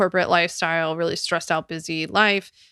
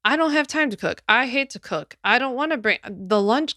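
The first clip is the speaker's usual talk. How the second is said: mock whiny complaint, pitched higher; a hint of a put-upon office worker; whiny customers; 5 semitones higher than usual. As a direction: imitate reluctant clients whining about cooking. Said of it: "People were like".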